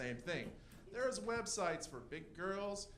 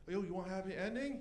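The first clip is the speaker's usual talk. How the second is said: bad Chinese accent; 2 semitones higher, faster than usual. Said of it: "make a really bad accent".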